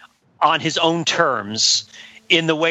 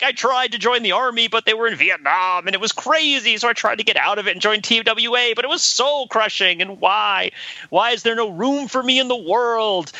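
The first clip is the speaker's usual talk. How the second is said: high, whiny voice, lightly played; a hint of a melodramatic German expressionist figure; mock upset whiner; 6 semitones higher than usual. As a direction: ham up a self-pitying victim wail. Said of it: "if he were more upset".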